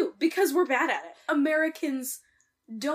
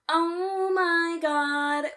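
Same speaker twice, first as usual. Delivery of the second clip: long drawn-out, higher exclamation; appalled disbelief; 4 semitones higher, much slower than usual. Retold or imitated. Podcaster reacting to a racist line in the film, appalled disbelief. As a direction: stretch every word in slow disbelief.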